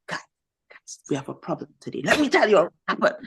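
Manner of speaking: fast, dramatic classroom build-up; excited teacher hook. Retold or imitated. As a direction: grab the class with a story. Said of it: "so I'll be like".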